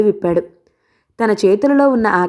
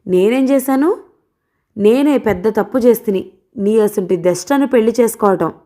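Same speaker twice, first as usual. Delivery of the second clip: flaring up; 3 semitones higher than usual. Acted. Balayya flaring at his wife over their marriage, mildly angry. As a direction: snap back at her, a touch of anger. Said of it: "అన్నాడు మండిపడుతూ".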